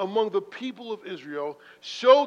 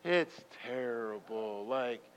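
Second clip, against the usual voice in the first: mock gloom; 2 semitones lower, slower than usual. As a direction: sink into a defeated mutter. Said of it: "Are we saying".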